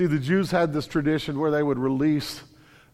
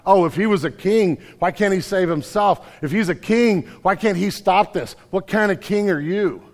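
jeering, a touch louder; mocking taunt; 3 semitones higher, 3 dB louder than usual. Preacher voicing the mocking crowd at the cross, jeering. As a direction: sneer at him like the crowd. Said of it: "voices that are mocking".

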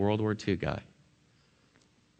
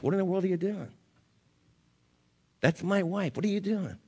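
put-on indignant young husband; 9 semitones higher than usual. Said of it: "And I asked".

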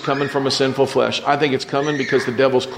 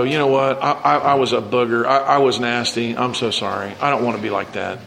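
contrite apology; 4 semitones lower than usual. Retold or imitated. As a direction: say sorry like a humbled friend. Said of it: "they come to you and go".

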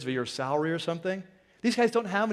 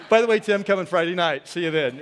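1 calling out to Tim; 5 dB louder than usual. Real, not acted. Shout out to Tim in congregation.

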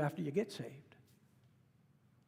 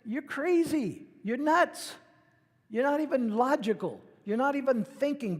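exasperated outburst; 7 semitones higher, 4 dB louder than usual. Retold or imitated. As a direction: tell them off in disbelief. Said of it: "you wanna say".

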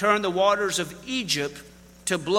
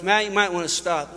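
casual. Retold or imitated. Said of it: "It was just casual".

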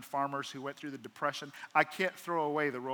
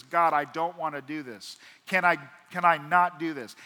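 rising plea; 8 dB louder than usual. Acted. Jesus' point of view.

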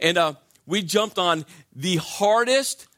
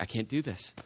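tag; 4 semitones lower, 9 dB quieter than usual. Retold or imitated. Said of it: "I'm like".

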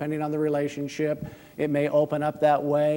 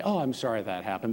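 dismissive sorry; 3 semitones lower, 5 dB quieter, faster than usual. Shown as a demonstration. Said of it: "Don't just say".

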